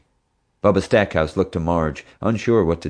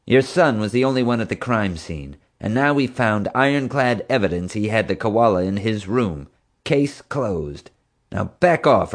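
sneering; 4 semitones higher than usual. Acted. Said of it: "Marge sneered".

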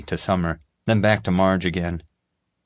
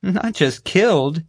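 high, slow and delighted; relishing the gory news; savoring every word with glee; gleeful; 12 semitones higher, slower than usual. A narrator's reading. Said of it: "Summer said gleefully".

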